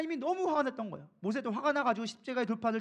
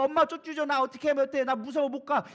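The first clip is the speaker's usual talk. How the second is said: mock whimpery pleading, raised and pressed; scared child; 2 semitones higher, 4 dB louder than usual. Preacher parodies Barak clinging to Deborah like mother, mock scared pleading. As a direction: imitate a clingy child afraid to go. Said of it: "이런 모습이 아니라는 거예요".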